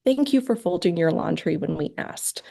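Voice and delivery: whispered, tender thank-you; warm thanks. Shown as a demonstration. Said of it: "warm, positive attention".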